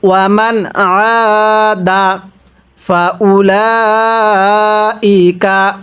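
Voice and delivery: very slow stretched chant; tajweed recitation; Quran recitation. Shown as a demonstration. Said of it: "কিভাবে পড়ব?".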